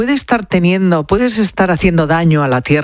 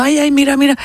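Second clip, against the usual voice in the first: imitated cries; 10 semitones higher, faster than usual. Radio commentator relays onlookers' shouts from flood footage, mock cries. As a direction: imitate alarmed onlookers crying out, pitched high. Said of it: "se oye comentarios gritando".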